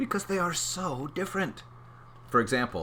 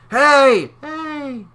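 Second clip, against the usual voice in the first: very high, loud hey; cheerful calling out; playful shout; 12 dB louder than usual. Acted. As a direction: call out to the shipwreck. Shouting at shipwreck.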